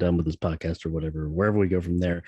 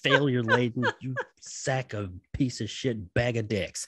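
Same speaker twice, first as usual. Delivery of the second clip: laughing; 3 semitones higher than usual. Real, not acted. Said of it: "re-reading narration laughing".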